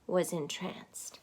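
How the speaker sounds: soft, breathless whisper; whispered awe. A narrator's reading. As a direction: breathe it out in wonder. Awed moment in story.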